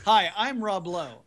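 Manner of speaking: a hint of a squinty Chicago sleaze selling himself; Rob Lowe impression. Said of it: "He talks like this".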